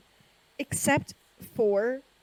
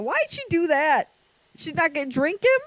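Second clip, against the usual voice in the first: higher, puzzled self-parody; retold bafflement; 7 semitones higher, 4 dB louder than usual. Host retells asking why Victoria bit him, mock bafflement. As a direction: question it in mock dismay. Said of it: "And I went".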